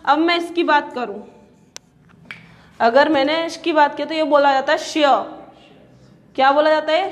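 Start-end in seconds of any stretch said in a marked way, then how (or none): 4.8-5.2 "श्य" with a y sound trailing the sh; sh with y-glide. Shown as a demonstration. Teacher showing class how it is spoken, y-glided "श्य". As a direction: let a "य" follow the sh in "श्य". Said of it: "य की ध्वनि निकलती है इसमें पीछे".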